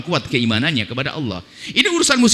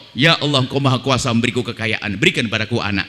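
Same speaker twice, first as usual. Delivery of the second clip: humble prayer; 7 semitones lower than usual. Pretend. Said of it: "mestinya jangan ngomong gitu dong".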